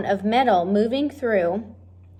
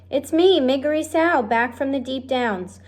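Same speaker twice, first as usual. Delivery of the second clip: shouted; 4 semitones higher than usual. Acted. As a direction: call it out proudly across the kitchen. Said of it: "she shouted".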